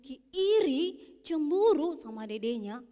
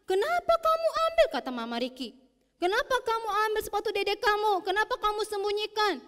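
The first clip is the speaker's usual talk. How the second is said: stern mother; 7 semitones higher, 4 dB louder, faster than usual. Acted. Mother scolds Riki.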